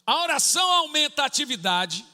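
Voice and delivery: loud, high, emphatic sermon delivery; fervent preaching. Acted. Pastor teaching the church about prayer's benefits, fervently. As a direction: drive the point home to the congregation.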